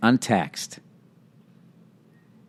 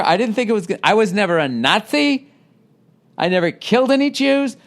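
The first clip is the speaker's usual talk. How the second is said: mocking the reviewer; 4 semitones higher than usual.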